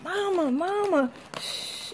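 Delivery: slow, high 'Mama' into a soft shush; little one shushing Mama, imitated; imitating child's hushing. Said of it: "Y'all know how she be hushing me".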